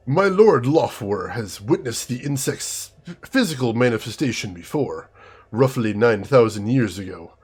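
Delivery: put-on slow, savoring German accent, relishing every vowel; a dragon's envoy savoring each word in a German accent. Envoy to the council, slow savoring German accent. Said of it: "speaks slowly with a deep, melodious German accent".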